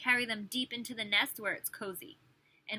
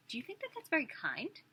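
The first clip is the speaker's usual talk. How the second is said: mock shocked question; 2 semitones higher, 4 dB quieter than usual. Teacher mock-gasping at the book's advice to children. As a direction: pretend to be scandalized for the kids.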